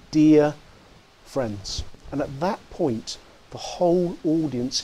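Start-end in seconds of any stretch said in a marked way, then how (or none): 0.1-1.8 tender hushed dear friends, softening on friends; Dickens's greeting. Retold or imitated. Dickens greeting two thousand working men, gentle and hushed. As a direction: greet them gently, barely a whisper at the end. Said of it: "and said, no more than two words".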